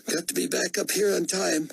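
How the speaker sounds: high executive voice; a high, clipped office type. A narrator's reading. Executive speaks.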